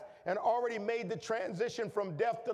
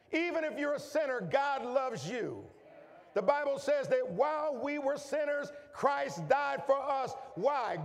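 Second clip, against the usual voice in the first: fervent pulpit climax, pitch climbing; preaching at full force; 3 semitones higher than usual. Acted. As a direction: lift the church higher with each line. Preaching build on God's love.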